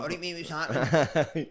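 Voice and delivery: hammed-up English accent; mock London accent. Shown as a demonstration. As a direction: do a cheeky London geezer with a laugh. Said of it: "Talk like that".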